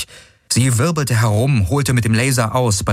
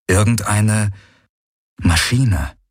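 plain reading voice

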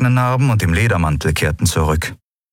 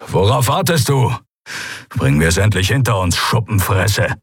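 defiant taunt. Acted. Keru defying the gunman.

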